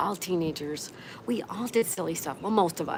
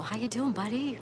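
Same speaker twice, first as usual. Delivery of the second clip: higher, sing-song pet voice; talking to the dog; 5 semitones higher than usual. Real, not acted. Greeting her dog Knuckle in a higher pet voice. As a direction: coo at the dog.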